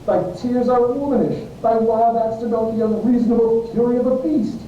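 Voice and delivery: high, indignant rebuke; heated telling-off; stern scolding. Acted. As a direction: berate him, pitch climbing. Friar berates weeping Romeo.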